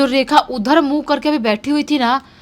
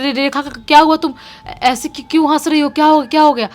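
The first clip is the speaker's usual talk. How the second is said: stammering scared questions, louder; frightened; 4 semitones higher, 5 dB louder than usual. Retold or imitated. Landlady sees the twisted neck, stammers in fright. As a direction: imitate a startled panicky woman. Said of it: "वो औरत बहुत घबराती है".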